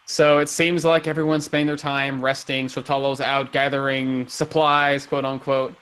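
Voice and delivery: measured storytelling voice; game master narration. A narrator's reading. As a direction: set the scene for the players. Game master sets scene.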